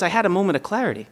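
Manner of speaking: quick, quiet line broken by laughter; laughing through it. Retold or imitated. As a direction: rush it out while cracking up. Dad's deadpan answer, laughing.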